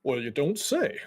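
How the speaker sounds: a hint of a folksy mage warming up; lightly voiced guild dwarf, intrigued. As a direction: invite visitors in, lightly in character.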